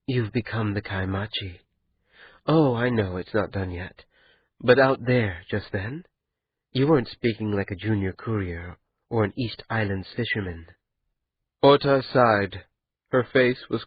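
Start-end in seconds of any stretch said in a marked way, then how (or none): 0.1-10.7 quiet, intimate reassurance to a lover; a hushed wife soothing her worried husband; Kian, soft and tender. Acted. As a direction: murmur comfort close to his ear. Kian praising Ota softly.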